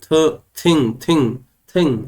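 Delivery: "थ" alone, then "थिंग" word by word; teacher isolating "थ", then repeating "थिंग" separately; th sound demonstrated. Shown as a demonstration. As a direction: sound out the opening "थ" of "थिंग", pausing between repeats. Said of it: "थिंग में थ का sound आ रहा है".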